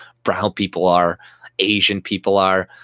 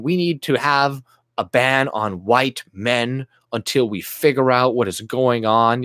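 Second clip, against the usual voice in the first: Don Lemon; 2 semitones higher than usual. Retold or imitated. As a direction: parody a smug TV anchor. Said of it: "what's his, Don Lemon?".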